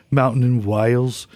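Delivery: put-on light Midlands accent reading a letter; a hint of a Black Country accent; a singer's Midlands accent. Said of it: "I'm gonna read it like a singer".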